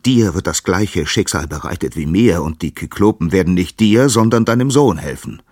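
calling out. Acted. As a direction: hurl the prophecy at him. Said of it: "rief Uranus".

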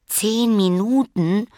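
high, slow, stretched-out outrage; as if ten minutes were forever; aghast child asking back; dismayed disbelief. Acted. Lilly dismayed at waiting.

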